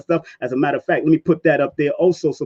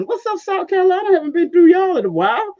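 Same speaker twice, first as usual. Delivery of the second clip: high excited greeting; 12 semitones higher, faster than usual. Real, not acted. Host greeting viewers' city.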